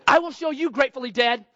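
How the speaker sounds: hammed-up revenge; mock vengeful. Angry chase of the car.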